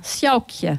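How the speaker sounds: "Sjaukje" with OU sounded as "au"; correct pronunciation. Shown as a demonstration. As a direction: say "Sjaukje" with an "au" diphthong for the OU. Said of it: "O U wird wie Au ausgesprochen".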